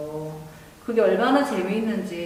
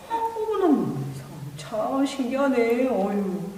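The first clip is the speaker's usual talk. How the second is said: amazed. Acted. Amazed villager exclaiming.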